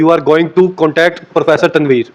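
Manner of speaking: word-by-word example, copying the teacher; slow mock teaching demo. Shown as a demonstration. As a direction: imitate the professor's slow drill. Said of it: "आप भी जो है professor साहब से राब्ता करने लगे हैं". (मज़ाक में धीरे-धीरे बोलना)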